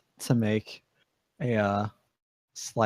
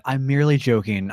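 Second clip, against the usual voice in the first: laughing it off; 4 dB louder than usual. Acted. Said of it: "I laugh".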